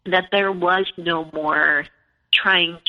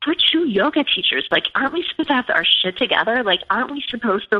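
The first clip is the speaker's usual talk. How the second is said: higher-pitched exasperated protest; retold disbelief, pitched up; incredulous; 4 semitones higher, faster than usual. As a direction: plead for some common sense, quickly. Retold disbelief at husband's insults.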